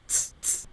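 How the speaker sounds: "ts, ts" as a short voiceless t-s burst; German C sound. Shown as a demonstration. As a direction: say "ts, ts" as T plus S, no vowel. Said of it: "la C suena como una T S".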